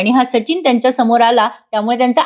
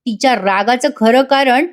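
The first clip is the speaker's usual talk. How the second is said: retold indignant father, higher-pitched at first; Prataprao, angry; 4 semitones higher than usual. Father defends his daughter to Sachin, angry scolding. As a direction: snap back in mild mock outrage. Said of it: "Prataprao चिडतात आणि म्हणतात".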